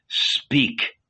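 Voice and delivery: breathy whispered command. A narrator's reading. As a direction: hush it out under the breath. Jesus hushing, finger to lips.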